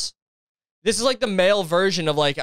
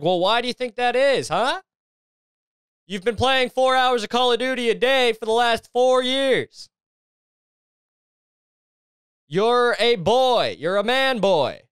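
higher-pitched, incredulous telling-off; exasperated mock scolding; 5 semitones higher than usual. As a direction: scold him like a fed-up girlfriend. Acted scolding of the boyfriend.

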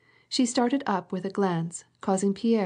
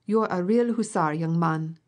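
mildly raised, exclaiming voice; colonel's hearty cry. A narrator's reading. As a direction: cry it out approvingly. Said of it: "cried the colonel".

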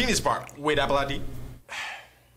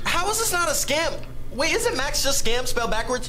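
slow exasperated; 8 semitones higher, slower than usual. Acted.

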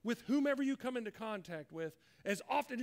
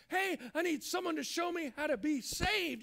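mock call, pitched up; 4 semitones higher than usual. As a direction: pretend call for help. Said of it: "if someone calls out to you and says".

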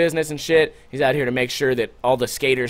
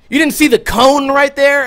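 higher, louder scornful mock cop; imitating angry cop; 10 semitones higher, 5 dB louder than usual. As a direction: scold like an outraged cop. Cop yelling at narrator.

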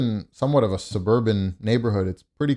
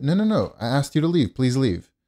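higher-pitched, insistent cut-in; retold firm refusal; 4 semitones higher than usual. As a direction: act out cutting off a persistent salesman. Retells cutting off the salesman.

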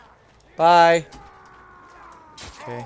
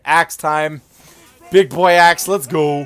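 rowdy party animal; 11 dB louder, slower than usual. Real, not acted. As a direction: pump yourself up. Drunk gamer hyping himself.

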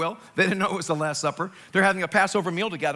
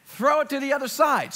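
higher-pitched called instruction; acted call across the water; 5 semitones higher than usual. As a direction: call over to the men in the boat. Jesus calling instructions to fishermen.

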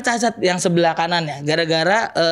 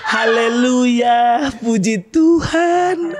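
pious brother; much slower than usual. Retold or imitated. Brother voiced praising God.

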